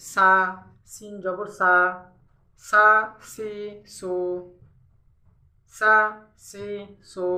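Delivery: সা, সি, সু with a plain hissed s; sin pronunciation. Shown as a demonstration. Teacher showing learners the letter sin, crisp s sound. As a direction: say সা, সি, সু with a thin s, never sh. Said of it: "সিনের উচ্চারণটা করি তাহলে কি কেমন হবে".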